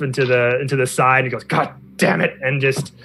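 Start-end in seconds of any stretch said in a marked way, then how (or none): 1.4-2.4 mildly exasperated swearing; frustrated curse. Acted. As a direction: curse in frustration, a little higher. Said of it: "get really frustrated".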